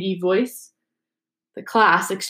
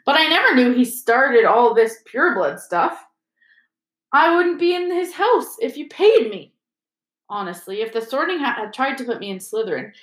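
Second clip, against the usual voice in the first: put-on a boy scoffing at Slytherin; Ron's voice; 3 semitones higher than usual. Ron scornful.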